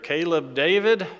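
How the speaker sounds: firm parental summons by full name; parent meaning business. Retold or imitated. Parent warning a child by first and middle name, meaning business. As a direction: call the child's name like you mean it. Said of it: "my parents meant business when I heard".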